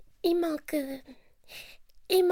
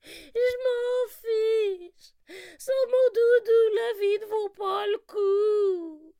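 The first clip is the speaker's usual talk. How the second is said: pleurnichant. Acted. Lapin désespéré en pleurs.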